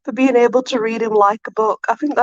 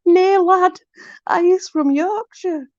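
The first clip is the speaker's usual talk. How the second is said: much higher, breaking into giggles; squeaky giggling reread; 10 semitones higher, slower than usual. Real, not acted. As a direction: laugh the line out, barely holding it together.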